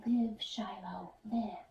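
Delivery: breathy unvoiced whisper. Boy whispering to his hurt dog, pleading softly. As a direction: whisper into the dog's ear. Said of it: "I whisper".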